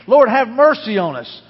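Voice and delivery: loud, drawn-out call as if through cupped hands; imitated shouting. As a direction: call slowly and loudly for mercy. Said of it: "They probably cupped their hands".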